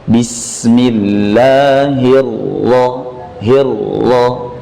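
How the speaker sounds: slow chanted Bismillahirroh- with the ro said once, no trill; slow Quran chant; tajwid recitation. Shown as a demonstration. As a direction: recite Bismillahirroh- slowly, the ro held without bouncing. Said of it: "Ro bertasydid dibaca tanpa mantulan".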